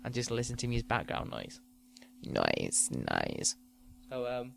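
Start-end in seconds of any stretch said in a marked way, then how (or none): 0.0-1.6 softly, lowering the voice for the lull; hushed podcast lull; quiet part. Shown as a demonstration. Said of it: "as I call it, the quiet part". 2.2-3.6 very low, soft murmured nice; a low mellow nice, nice; deep soft nice. Shown as a demonstration. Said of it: "the quiet part".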